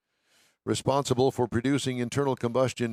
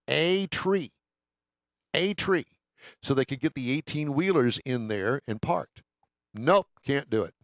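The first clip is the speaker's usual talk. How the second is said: mock indignant locals; 4 semitones higher, slower than usual. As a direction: play the stubborn locals, huffing. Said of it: "retold locals refusing tree cut".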